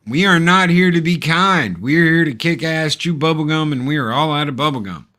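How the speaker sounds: hammed-up action hero swagger, fast at the end; tough-guy boast. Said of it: "John Kreese, man".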